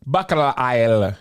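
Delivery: hammed-up Jamaican accent. Shown as a demonstration. Showing co-hosts his Jamaican accent on request, hammed-up Jamaican. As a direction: put on a playful Jamaican patois. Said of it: "My Jamaican accent".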